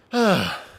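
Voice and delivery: loud, high sigh falling off. Real, not acted. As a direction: let out a big falling sigh. Wondering where the viewers are.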